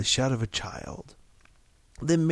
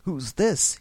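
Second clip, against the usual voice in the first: loud, higher demand; thick-voiced demand; 5 semitones higher, 4 dB louder than usual. A narrator's reading. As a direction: demand it like a drunk man. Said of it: "he demanded thickly".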